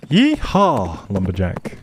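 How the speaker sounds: a gleeful rider's holler; cowboy yell. Acted. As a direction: whoop to spur the horse on. Spurring horse on.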